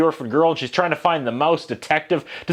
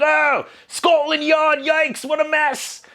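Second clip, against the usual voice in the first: mock British accent; 12 semitones higher, much slower than usual. Reviewer parodying creepy old London stuff, in a hammed-up British accent. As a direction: cry out in an exaggerated London accent. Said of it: "if that's the right accent".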